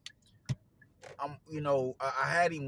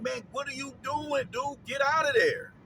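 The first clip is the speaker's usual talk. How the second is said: higher, louder, shouting get out; yelling at fighter; 12 semitones higher, 4 dB louder than usual. Retold or imitated. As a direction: yell at the TV. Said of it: "So I'm, I'm like".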